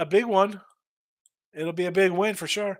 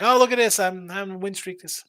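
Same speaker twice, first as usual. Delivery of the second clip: higher, louder mock gloating, then slowing down; mock excitement; 4 semitones higher, 4 dB louder than usual. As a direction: imitate a bettor bragging about his win streak. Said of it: "should I get all excited about like".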